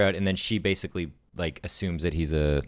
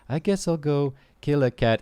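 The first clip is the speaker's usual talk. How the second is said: mock villain line; 7 semitones higher, 3 dB louder than usual. Voicing the man's line.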